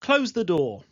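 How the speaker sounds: blunt order; teacher modelling a bare command; direct command. Shown as a demonstration. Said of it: "these can sound very direct as imperatives".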